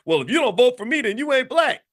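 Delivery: high-pitched exasperated retort; mock snap under pressure; retold flustered blurting; imitating Biden cracking. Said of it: "that's when Biden just cracked and said".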